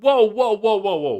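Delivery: loud, high retold alarm; a dad retells stopping his kid from bossing the robot; alarmed whoa. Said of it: "And I said".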